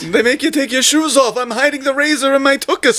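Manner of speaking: high Jewish comedian voice; kvetching Jewish comic accent. Pretend. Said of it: "Jewish accent".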